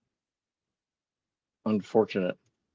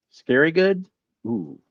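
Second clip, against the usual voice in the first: amused surprise; 9 semitones higher, slower than usual. Real, not acted. Reacting to chat reading.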